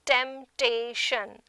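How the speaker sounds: temptation broken as temp-ta-tion; split into syllables. Shown as a demonstration. Teacher showing a trisyllabic word, split into syllables. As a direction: say temptation one syllable at a time. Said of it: "are trisyllabic".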